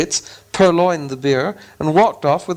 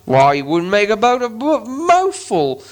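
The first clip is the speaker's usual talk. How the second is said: higher gruff troll voice; 7 semitones higher, slower than usual. Acted. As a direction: scoff it like a full troll. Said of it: "said William".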